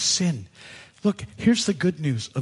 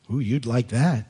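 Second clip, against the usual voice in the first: snake voice; 6 semitones lower than usual. Retold or imitated. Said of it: "It's not a very good snake voice".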